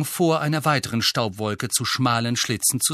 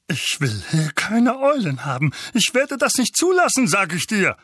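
raised, loud, building tirade; Onkel Vernon, ranting; 8 semitones higher, 4 dB louder than usual. Acted. Uncle forbids owls in his house, ranting. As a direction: rage and peak mid-rant.

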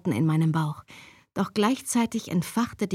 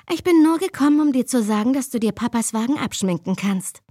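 deep rasping growl; 3 semitones higher, 4 dB louder than usual. Acted. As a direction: snarl it at her brother. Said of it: "setzte sie mit knurriger Stimme an".

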